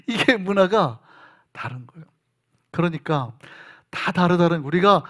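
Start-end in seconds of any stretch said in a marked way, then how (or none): 0.1-2.1 laughing repeat. Real, not acted.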